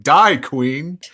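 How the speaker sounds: lightly acted hostile shout; crowd jeer. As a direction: call it out like a heckler. Voicing hostile crowd shouting at Queen.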